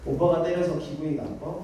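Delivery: retold tender question with a rising end; gentle, kindly. Father comforting his crying child after scolding, gentle and kindly. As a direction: imitate a parent softening toward a child. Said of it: "아주 상냥한 목소리로".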